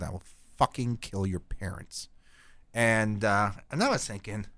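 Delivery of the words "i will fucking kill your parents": the threat again, softer and menacing; quiet threat. Retold or imitated. Telling the fan kid to stay away, quietly menacing. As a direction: drop the voice and lean into the threat. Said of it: "And I said".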